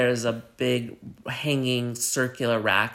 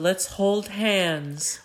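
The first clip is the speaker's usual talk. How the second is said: put-on coaxing old lady; 7 semitones higher, much slower than usual. Old lady soothing the others.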